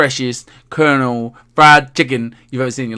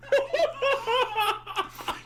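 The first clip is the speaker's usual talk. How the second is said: high giggle; 13 dB quieter than usual. Real, not acted. Cracks up after mock outburst.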